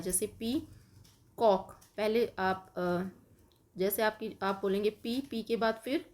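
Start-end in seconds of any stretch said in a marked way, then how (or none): 0.4-1.7 पी and कॉक said apart, a pause between; syllables split. Shown as a demonstration. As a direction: break पीकॉक into पी then कॉक. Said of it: "clap करना है".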